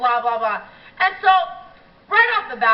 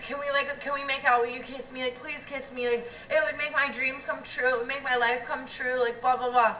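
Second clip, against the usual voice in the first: mock whiny begging; 5 dB quieter than usual. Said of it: "And he's like".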